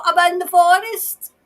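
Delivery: urgent cry for help; shouting. Acted. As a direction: shout it as the lost woman. Channels woman shouting.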